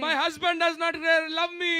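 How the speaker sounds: mock a wife wailing at home; self-pitying mock cry; acted lament. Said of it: "when you go home and cry".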